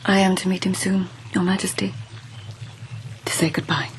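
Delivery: hushed, hesitant whisper; whispered admission to the empress. Acted. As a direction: confess it under her breath. Lady confessing a farewell meeting.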